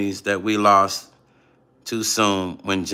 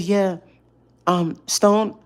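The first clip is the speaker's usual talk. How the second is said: high, hesitant light voice; a singer; 9 semitones higher, much slower than usual. Retold or imitated. Caller answering Stone's callback, high imitation. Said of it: "this is just how he sounded".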